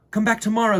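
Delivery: high, loud call after the wind. Acted. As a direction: call him back across the rocks. Girl calls to the wind.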